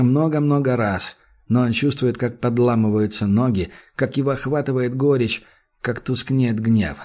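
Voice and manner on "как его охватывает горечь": usual speaking voice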